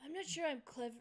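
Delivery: lazy, laid-back frat bro voice; a lightly done dopey college dude; frat boy voice. Acted. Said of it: "Time to dig out my Napoleon Dynamite frat boy voice".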